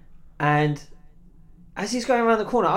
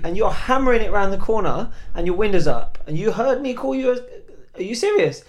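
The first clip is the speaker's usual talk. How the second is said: raised, emphatic retold protest; indignant arguing; 5 semitones higher, 5 dB louder than usual. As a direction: argue your case in disbelief. Acting out his argument with cop.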